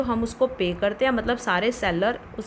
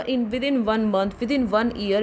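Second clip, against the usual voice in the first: slow dictation; much slower than usual. Shown as a demonstration. Slow English phrase in lesson.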